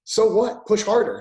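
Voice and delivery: rising to a loud high "push harder"; stern push. Retold or imitated. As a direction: drive them like a tough coach. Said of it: "my wife was like".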